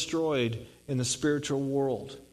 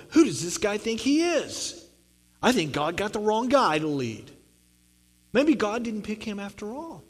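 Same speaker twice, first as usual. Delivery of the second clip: grumbling people; 5 semitones higher than usual. Retold or imitated. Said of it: "can you imagine some of the people going".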